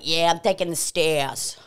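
imitated older lady's Boston accent. Imitating older ladies on the stairs, Boston accent. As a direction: drop the R, Boston style. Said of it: "older white ladies who were like".

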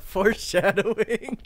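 high, slow, laughing mockery; mocking. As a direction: drag the word out mockingly. Mocks friend's word.

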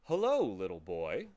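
smooth, genial greeting; amiable. A narrator's reading. Blank-faced gentleman shaking Milo's hand, amiable. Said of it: "he said, amiably shaking".

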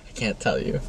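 hushed unvoiced whisper. Real, not acted. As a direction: whisper it like a secret. Secretive answer about who.

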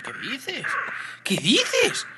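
high-pitched disbelieving question; incredulous. Real, not acted. Gamer reacting to skilled rivals in the match, incredulous. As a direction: squeak it in sheer disbelief.

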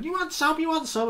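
high, taunting schoolboy voice; hammed-up teen squaring up to a teacher; mock challenge. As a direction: pitch way up and goad like a cornered lad. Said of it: "he's going".

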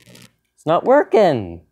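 slow, stretched "working"; drawn-out complaint. Real, not acted. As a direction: drag out "It's not working" in protest. Repeated reaction to failed shock.

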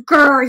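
short mock tiger growl; brief, contained growl with some force; little growl. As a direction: give a small, angry "grrr". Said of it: "he has a little growl now".

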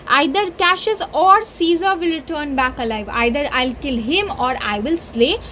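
passionate Cassius. Acted. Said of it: "he's saying it".

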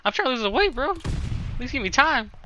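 high-pitched, playfully hurt protest; hammed-up wounded indignation; mock offended. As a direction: squeal it as if insulted. Mock offence at being called heavy.

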